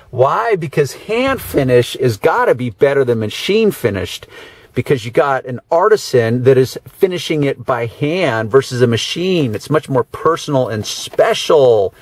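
dry, mock-admiring sarcasm; sarcastic. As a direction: praise it with an obvious eye-roll. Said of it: "I hope that my sarcasm is coming through".

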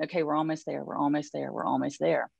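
imitating a calm seatmate's steady reassurance; understated, soothing repetition; retold calm reassurance. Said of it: "She was so calm".

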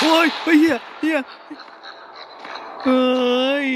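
terrified scream. Real, not acted. Monster appears in game.

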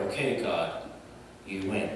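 low, soft, giving in; hushed surrender. Acted. David to God, a low, soft surrender. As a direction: breathe out the surrender.

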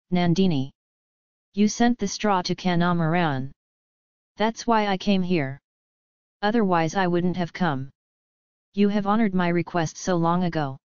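lightly trembling, unsteady voice; shaky voice. Acted. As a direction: let the voice waver a little. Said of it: "In a shaky voice".

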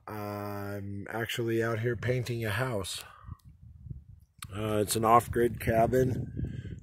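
slightly hoarse, worn voice; talking through a tired, hoarse voice; voice a bit out. Real, not acted. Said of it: "My voice is a little bit out".

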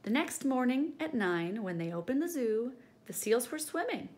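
lively read-aloud storytelling voice; story narration. A narrator's reading. Teacher reading the class a picture book, lively. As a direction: read it to the children with bounce.

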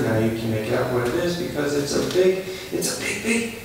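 talking through a mouthful; words round something in the mouth; mouth full. Real, not acted. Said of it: "I got something in my mouth".

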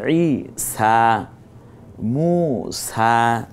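very slow ই সা, মু সা with the a stretched long; মু সা recited slowly, final a drawn out; drawn-out vowel. Shown as a demonstration. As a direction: stretch the final a of মু সা a full beat. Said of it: "একালিপ টেনে বলবো".

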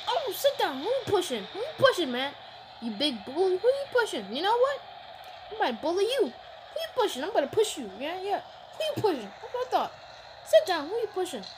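high, indignant taunting voice; mock indignant. Gamer sassing the wrestler who pushed him, high and indignant. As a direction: act offended and sass the opponent.

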